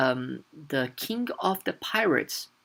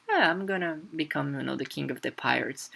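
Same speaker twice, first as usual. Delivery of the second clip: casual; 4 dB quieter, faster than usual. Retold or imitated. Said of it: "Luffy all casually says".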